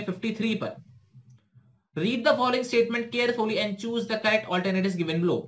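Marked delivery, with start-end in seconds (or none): 2.0-5.4 reading the question word by word, very slowly; slow dictation reading. Shown as a demonstration. Teacher reading an exam question to students, slow and measured. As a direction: spell it out slowly for students to follow.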